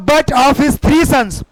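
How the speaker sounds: slow, drawn-out reading; slow dictation. Shown as a demonstration. Teacher rereading the example to students, slowly. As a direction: read it slowly so students follow.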